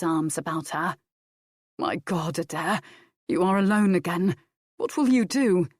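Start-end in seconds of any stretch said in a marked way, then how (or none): 1.8-5.7 rising distress; lightly voiced man, alarmed; shaken. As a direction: ask in alarm. Rob's shock to Adair.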